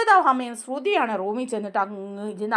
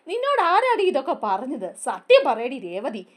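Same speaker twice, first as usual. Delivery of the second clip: irritated accusation; 2 semitones higher than usual. Retold or imitated. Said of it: "എന്നൊക്കെ ചൊറിഞ്ഞ് ചന്ദ്ര".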